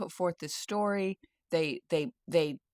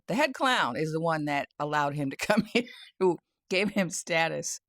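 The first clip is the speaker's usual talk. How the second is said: amused, laughter bubbling through; laughing; 3 dB louder than usual. Real, not acted. Vlogger mocking the head clown to viewers, laughing. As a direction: let laughs break into the sentence. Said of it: "And I'm laughing because".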